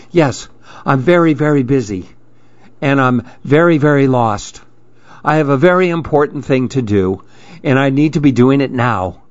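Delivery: lightly voiced busy pigeon, quick in bursts; a touch of self-important hurry; mildly flustered, rushing through it; harried pigeon. Bothered, busy Pigeon explains himself.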